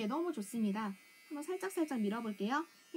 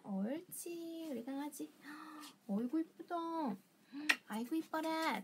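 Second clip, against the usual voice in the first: squeaky praising a dog; 4 dB quieter than usual. Real, not acted. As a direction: coo over the dog like a proud owner. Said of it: "칭찬을 많이 해주시고". (강아지를 칭찬하는 다정한 목소리)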